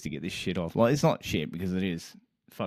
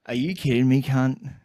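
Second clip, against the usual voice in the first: angry; 5 semitones higher, 5 dB louder than usual. Retold or imitated. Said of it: "gonna fucking smash everything".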